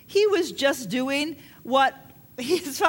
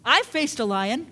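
confident boast. Retold or imitated. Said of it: "David just goes on and on to say".

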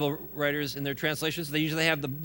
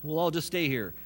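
giddy squeal, much higher, then settling; goofy Peter; 5 semitones higher than usual. Retold or imitated. The pastor mocks Peter on the mountain, giddy and goofy. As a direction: ham up an overexcited Peter. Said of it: "Peter got all goofy about it and goes".

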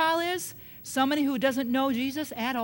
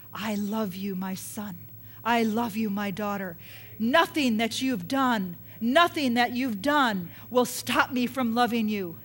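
tender voice of God; 4 semitones lower than usual. Retold or imitated. Preacher voicing Jesus comforting a sinner, tender. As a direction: speak it gently like a loving father. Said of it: "you hear his voice say".

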